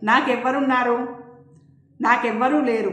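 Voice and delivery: a touch of weeping, grief-stricken; mild crying lament. Acted. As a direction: mourn over her father's body. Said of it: "Preethi ఏడుపుతో".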